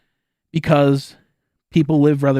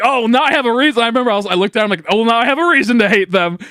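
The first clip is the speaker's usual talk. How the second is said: sarcastic; 6 semitones higher than usual. Retold or imitated. Joking retort to girlfriend.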